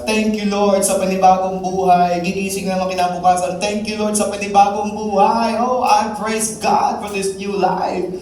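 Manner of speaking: joyful praise. Acted. Christian praising loudly in garden.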